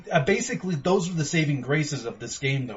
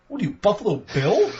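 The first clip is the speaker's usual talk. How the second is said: laughing; 7 semitones higher, 4 dB louder than usual. Retold or imitated. Mocking a guy, laughing.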